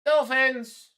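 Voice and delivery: put-on Dolphins in a Creole accent. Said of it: "you added a Creole accent".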